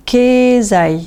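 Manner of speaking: first vowel of Kezai held; long E in Kezai. Shown as a demonstration. Teacher gives another example, long E in Kezai. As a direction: stretch the E of Kezai, high and even. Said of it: "Nous prononçons E".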